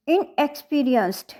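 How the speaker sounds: "इनएक्सपीरियंस्ड" with the weight on "पी"; third-syllable stress. Shown as a demonstration. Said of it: "यहाँ third syllable के ऊपर है". ("इनएक्सपीरियंस्ड" में "पी" पर ज़ोर)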